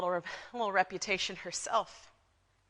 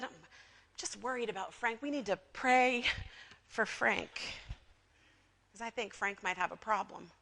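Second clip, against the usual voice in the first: feigned concern; 4 dB quieter than usual. Acted. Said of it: "I'm worried about it".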